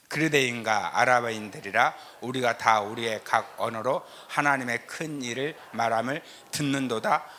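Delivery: ordinary delivery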